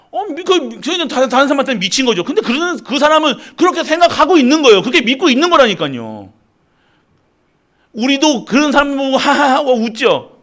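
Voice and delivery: high, pressing preacher's push; impassioned preaching. Acted. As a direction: drive the point home. Preaching rises to high pitch. (높은 톤으로 몰아치는 설교)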